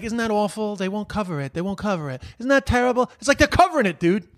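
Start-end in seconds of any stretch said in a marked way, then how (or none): 0.0-3.1 softer, mocking put-upon whine; mock Trump lament. Mocking the president complaining about coverage, softly whining. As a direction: imitate him moaning pitifully, hushed. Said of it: "He's like".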